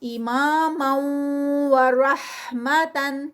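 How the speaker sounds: very slow رحمتن with the tanween merged into the و; Quranic recitation. Shown as a demonstration. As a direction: chant it slowly as a tajweed drill. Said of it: "ہا میں convert ہوگی".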